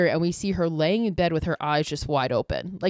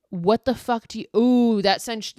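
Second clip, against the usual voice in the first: higher, startled gasp of disbelief; shocked outburst; 4 semitones higher, 4 dB louder than usual. Real, not acted. Viewer recapping a horror film, genuinely startled outburst. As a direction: blurt it out, really spooked. Reacting to a chilling movie moment.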